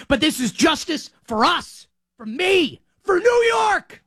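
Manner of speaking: rising to a shout on New York; triumphant shout. Real, not acted. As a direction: yell it out for the city, stretched and proud. Fan shouting justice for New York.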